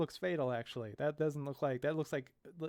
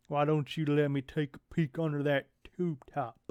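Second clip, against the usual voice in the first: sleazy thug. Acted. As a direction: creep her out on purpose. Thug harassing Amber.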